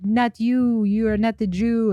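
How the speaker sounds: put-on half-hearted German accent; bad German accent. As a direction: try a German accent and don't quite manage it. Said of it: "I can't even do a German accent".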